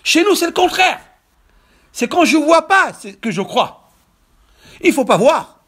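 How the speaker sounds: loud, high-pitched preacher's proclamation; prédication exaltée. Real, not acted. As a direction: proclaim each word forcefully to the congregation. Preaches at full force. (prêche à pleine voix, exalté)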